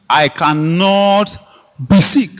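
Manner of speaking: drawn-out, solemn insistence; slow declaration. Acted. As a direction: stretch out cannot.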